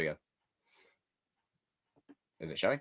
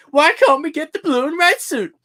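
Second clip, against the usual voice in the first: whiny mock question; 10 dB louder than usual. Mocking a chatter's question.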